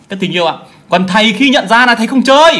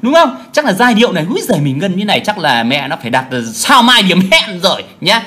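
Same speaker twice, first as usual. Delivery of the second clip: mock deluded singer; 2 semitones higher than usual. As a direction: lightly imitate a singer who thinks he's a star. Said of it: "giờ nó tưởng rằng". (nhại giọng ca sĩ ảo tưởng tự mãn)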